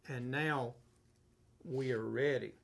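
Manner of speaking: winded, short of breath. Real, not acted. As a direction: speak while running out of air. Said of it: "Okay, I'm out of breath".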